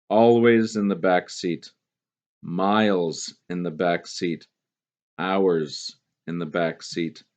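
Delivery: slow, measured poem reading. Acted. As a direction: read it like a poem to the class. Teacher reads poem aloud.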